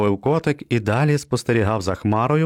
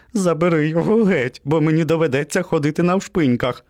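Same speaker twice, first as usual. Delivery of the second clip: scared pleading; 7 semitones higher than usual. Acted. Наляканий песик благає.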